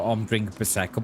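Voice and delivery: lightly posh, quick "Prosecco"; a hint of posh toff. Shown as a demonstration. Gamer mocks himself sounding posh, lightly posh. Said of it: "I sound a bit posh when I say".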